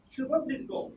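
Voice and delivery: easy, gentle please go; calm polite request. Shown as a demonstration. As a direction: ask him kindly and smoothly. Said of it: "Then Shubho will go smoothly".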